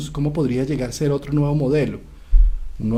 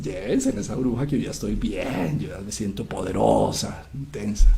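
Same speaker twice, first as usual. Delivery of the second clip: a touch lower and softer, self-assured; lightly voiced goddess; 4 semitones lower, 5 dB quieter than usual. Ereshkigal, healed, tells the dwarfs to take her sister away, lightly lower. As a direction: sound newly strong and done with her.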